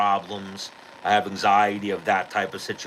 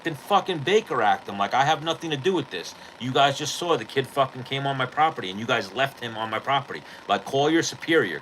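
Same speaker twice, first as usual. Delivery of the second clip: higher-pitched, heated retold rant; angry rant at cops; 4 semitones higher than usual. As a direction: vent your outrage at the officers. Ranting at the police.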